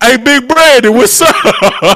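very loud, very high, drawn-out call. Retelling greeting a coworker in front of customers: imitating loudly calling a name. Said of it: "to say his name as loud as possible".

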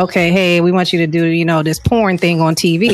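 ordinary talk

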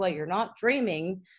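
ordinary delivery

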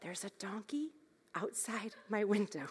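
barely-there, very quiet, hushed little voice. A mother retells her young daughter's reply, imitating a very quiet voice. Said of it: "in a very quiet voice".

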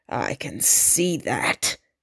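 curt, low, slow snapped delivery. A Sardaukar answers Yua, who says the Duke lacks the ring; snapping. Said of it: "the Sardaukar snapped".

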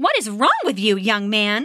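insistent and demanding, with swooping pitch. A mother questions her son after he spits out his food, demanding. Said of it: "His mother demanded".

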